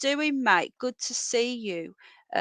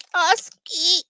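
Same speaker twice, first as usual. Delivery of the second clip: much higher sing-song pet call; high treat voice; 8 semitones higher, 5 dB louder than usual. Real, not acted. Coaxing the pet rabbit with a high treat voice. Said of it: "I've gotta do the voice".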